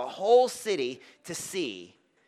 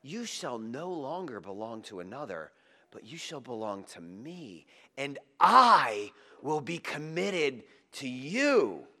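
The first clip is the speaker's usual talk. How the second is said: tender promise. Acted. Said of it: "look what he says to her next".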